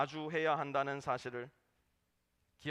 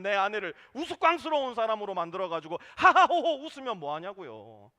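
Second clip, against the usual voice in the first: normal talking voice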